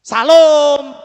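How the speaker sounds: Salom blasted loud with a plain s; wrong pronunciation. Shown as a demonstration. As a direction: shout "Salom" long as SA-LOOOM. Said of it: "Bukan, saudara". (Salom diteriakkan medok, tanpa bunyi sy)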